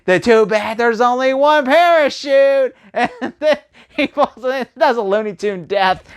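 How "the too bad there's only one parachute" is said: high, slow, gloating put-on voice; smug villain line. Reviewer voicing the villain's parachute taunt, mock smug. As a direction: gloat over the hero, drawn out. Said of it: "And they".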